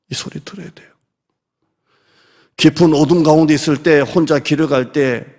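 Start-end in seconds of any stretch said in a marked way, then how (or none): 0.1-0.9 숨죽여 속삭이듯; 조용히 속삭이며 강조; whisper. Real, not acted. Whispered urging. (속삭이는 목소리로)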